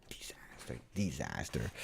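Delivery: hushed, breathy mock despair; whispered lament. Streamer mourns losing a Juventino, whispered lament. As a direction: whisper it low as if all is lost.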